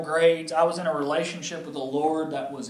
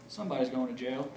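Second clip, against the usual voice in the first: softer, lower, half laughing; dad softly predicting jail; ominous dad; 3 semitones lower, 7 dB quieter, faster than usual. Retold or imitated. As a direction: drop your voice for Dad's grim verdict. Dad's ominous verdict.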